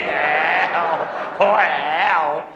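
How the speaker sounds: groaning oh hell through laughter; mock groan while laughing at the fall.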